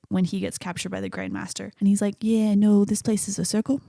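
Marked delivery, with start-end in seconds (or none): 2.2-3.8 put-on imperfect New Zealand accent; amateur New Zealand accent for a movie quote; Korg. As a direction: attempt a New Zealand accent, lightly imitated. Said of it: "work on my New Zealand accent".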